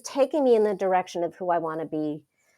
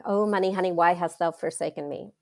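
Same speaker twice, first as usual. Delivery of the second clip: mock dramatic lament; 2 semitones lower than usual. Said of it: "I'm a dramatic person".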